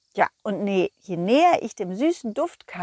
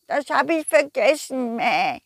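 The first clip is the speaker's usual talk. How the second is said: forgetful sheep voice; 3 semitones higher than usual. Acted.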